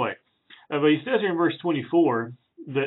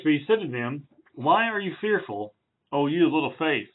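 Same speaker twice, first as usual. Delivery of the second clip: measured Bible reading voice; reading the passage to the congregation; scripture reading; 2 semitones higher than usual. Acted. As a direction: read the verses with reverence. Reads scripture aloud.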